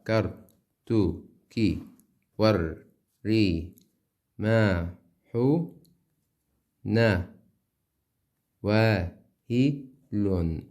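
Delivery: syllables counted out one by one, paused. Shown as a demonstration. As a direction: tap out each syllable. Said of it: "حرف لحاله مقطع قصير". (عدّ المقاطع واحدًا واحدًا)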